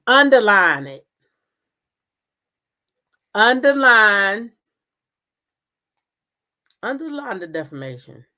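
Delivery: loud, firm order to underline; judge's command. Retold or imitated. A judge ordering the plaintiff, firm and loud. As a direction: bark it like a judge laying down the law.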